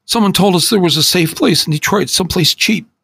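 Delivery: high, begging, near tears; pleading for forgiveness, voice cracking high; tearful apology. Acted. Teen begging his friend's forgiveness, high and tearful.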